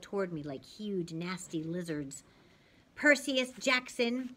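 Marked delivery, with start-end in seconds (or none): 2.9-4.3 put-on Southern accent. A narrator's reading. Missus Dodds naming Percy in a slow Southern accent. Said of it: "in an accent that was definitely from somewhere farther south than Georgia".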